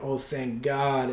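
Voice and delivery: soft, slow sigh of relief; relieved and thankful. Retold or imitated. Husband seeing wife safe on the snowmobile, relieved. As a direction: breathe out quiet thanks. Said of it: "I'm, like, relieved, and I'm thankful".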